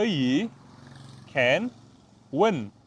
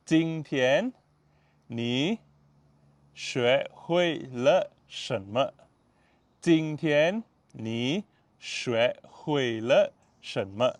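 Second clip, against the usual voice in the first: slow; much slower than usual. Shown as a demonstration. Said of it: "Go slow".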